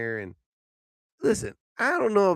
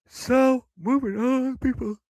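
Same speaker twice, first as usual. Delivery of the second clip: higher, louder, upbeat moving on; loud host announcement; 9 semitones higher, 6 dB louder, slower than usual. Real, not acted.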